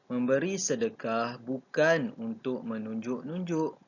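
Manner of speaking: deliberate model reading with "bukan" set apart; phrase it carefully around "bukan"; model negation intonation. Shown as a demonstration. Teacher modelling a negative sentence for pupils, model intonation. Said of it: "itu adalah intonasi yang betul".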